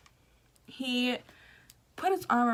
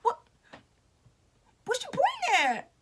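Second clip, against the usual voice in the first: much higher, put-on questioning voice; mock puzzled celebrity; 13 semitones higher than usual. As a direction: imitate him playfully asking. Celebrity voiced in retold story.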